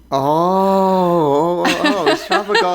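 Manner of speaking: fast, high, through laughter; laughing. Real, not acted. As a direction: blurt it out while laughing. Laughs realising fish joke.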